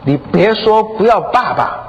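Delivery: put-on high-pitched child's plea; imitated tearful begging, drawn out at first; pleading daughter. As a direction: beg mother, voice lifted high. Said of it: "哀求他的妈妈说".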